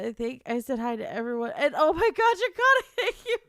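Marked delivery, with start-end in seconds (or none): 1.6-3.4 loud high squeal with a laugh; thrilled thanks. Real, not acted. Streamer thanking a viewer for gifts, thrilled high squeal. Surprised by viewer's gifted subs.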